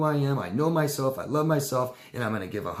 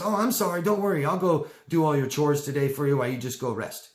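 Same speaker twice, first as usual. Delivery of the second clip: higher, rushing apology; eager hero; 4 semitones higher, 3 dB louder than usual. Acted. Hero apologizing to the victim, eager to fix things. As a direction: soothe and rescue in a hurry. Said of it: "And the hero says".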